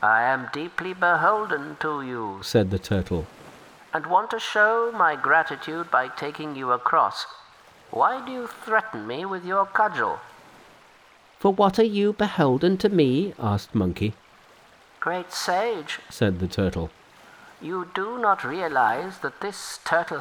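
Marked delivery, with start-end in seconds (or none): 0.0-2.4 humble river turtle offering help. Acted. 3.9-10.2 humble river turtle offering help. Acted. Turtle pleads. 11.4-13.3 brisk Monkey King, pitched high; cocky, impatient hero cutting in. Acted. Monkey questions. 15.0-16.0 a hint of a gentle old turtle, higher and softer; humble river turtle offering help. Turtle explains.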